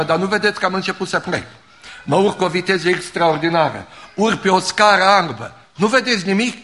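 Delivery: quick, rising, breathless wonder, a laugh at the start; awed dying woman. Retold or imitated.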